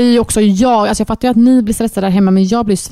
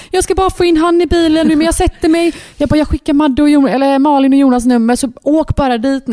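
stressed friend; 5 semitones higher than usual. Retold or imitated. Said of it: "hon blir också stressad som fan".

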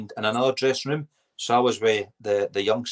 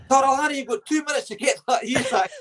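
high, mild mock yell; mock shout. Teammate shouts at him to finish his hair, high mild mock yell. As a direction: holler the deadline at him, lightly. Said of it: "he used to shout".

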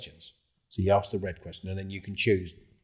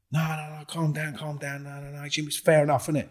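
calming others; 8 semitones higher than usual. Retold or imitated. Others intervening to calm.

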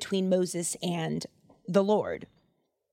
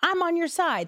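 pep talk; 6 semitones higher than usual. Retold or imitated. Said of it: "pump him up".

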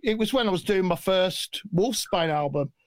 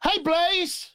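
imitating Don; 7 semitones higher than usual. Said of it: "And he goes".

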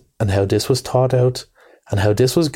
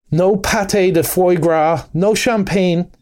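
grinning tease; 6 semitones higher, slower than usual. A narrator's reading. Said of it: "continued the Rat, grinning".

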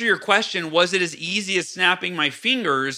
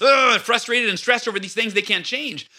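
mock exasperation; 4 semitones higher than usual. Mimicking people stuck in traffic.

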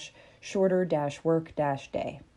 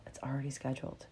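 calm reply; 4 semitones lower, 13 dB quieter, faster than usual. Acted. Calm answer to panic.

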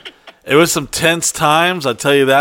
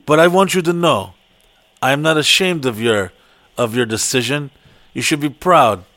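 inspirational speech; 3 semitones lower than usual. Retold or imitated. Speaker addressing the Colombian women, lower solemn pep talk. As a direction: give a solemn motivational talk. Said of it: "inspirational meeting".

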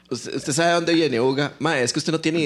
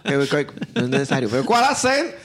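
passive mock reply; 3 semitones lower than usual. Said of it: "que sea como así".

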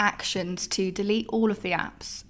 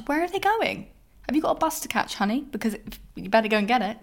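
mocking sarcasm; 3 semitones higher than usual. Real, not acted. Mocking rhetorical questions.

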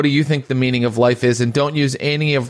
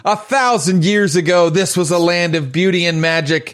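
fantasy narration. Acted. Game master opens scene.

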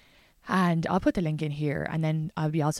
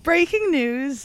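newsreader voice; 8 semitones higher, 6 dB louder, much slower than usual. Pretend. Mock newsreader intro.

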